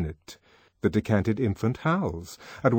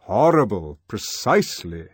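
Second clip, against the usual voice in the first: stately controller; 5 dB louder than usual. Acted. Controller echoing the boy.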